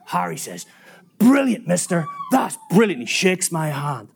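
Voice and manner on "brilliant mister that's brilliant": delighted approval. Retold or imitated. Harry delighted by party idea.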